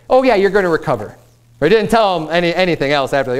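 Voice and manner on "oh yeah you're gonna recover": quick, higher, breezy retold reply; offhand reassurance. Hazael brushing off the sick king's question, offhand. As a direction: toss it off as if nothing is wrong.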